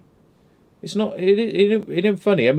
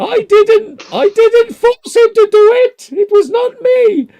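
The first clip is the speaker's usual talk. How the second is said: loud, high, laughing protest; cackling "it wasn't me" defence; laughing denial; 9 dB louder, slower than usual. Real, not acted. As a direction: shout it out through the laughter. Joking denial, laughing loudly.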